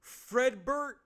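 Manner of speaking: furious father calling his son; father's shout. Acted. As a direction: yell his name across the house like an angry dad. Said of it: "father sh-, shouts".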